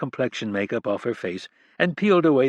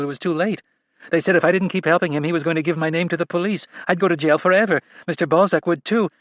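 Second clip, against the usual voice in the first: higher, quick, tearful-sounding confession; a young woman's desperate plea, pitched up; pleading young woman; 5 semitones higher than usual. A narrator's reading. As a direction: beg them to believe her, words tumbling out. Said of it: "She wiped her face".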